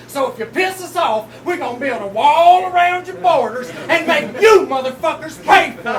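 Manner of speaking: hammy Southern redneck voice; fake Southern accent. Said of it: "finish rapping this round with a fake Southern accent".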